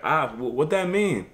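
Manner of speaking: soft, quiet, mock-confused question; playing dumb. To tough girls, a soft and quiet play-dumb question. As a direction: act like you don't get it, quietly. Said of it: "I was playing dumb".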